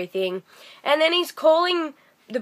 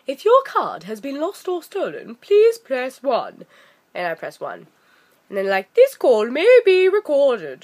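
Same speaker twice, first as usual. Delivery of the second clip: mock automated menu; 3 semitones higher than usual. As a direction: read it like a phone bot. Bank's automated phone menu.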